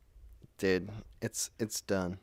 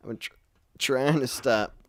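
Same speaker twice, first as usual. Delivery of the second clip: half laughing, half crying; breaking up while hiccuping; laughing through hiccups; 4 dB louder than usual. Real, not acted. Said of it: "I can't stop".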